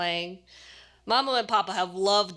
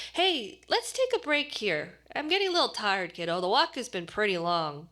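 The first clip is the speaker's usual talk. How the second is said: tired sigh. Acted. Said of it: "Papa sighs".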